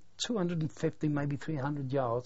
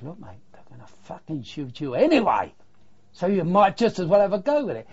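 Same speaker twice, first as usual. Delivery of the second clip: loud, higher, fed-up yell; exasperated shout; 4 semitones higher, 10 dB louder than usual. Retold or imitated. Sergeant yelling at the reluctant correspondent, loud and fed up. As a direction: bark it at him, out of patience. Sergeant forcing gun on civilian.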